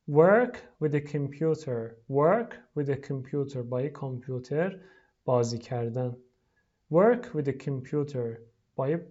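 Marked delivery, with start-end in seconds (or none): 0.1-3.6 slow model. Shown as a demonstration. Teacher models the phrase for pupils, slow. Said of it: "لطفاً تکرار کنید". 6.9-8.4 slow model. Shown as a demonstration. Teacher models for pupils, slow. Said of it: "لطفاً تکرار کنید".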